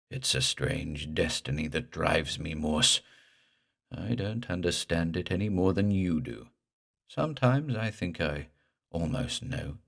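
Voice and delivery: gurgle like a drowning man; gurgling ghost voice. Acted. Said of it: "The horrible voice gurgled again".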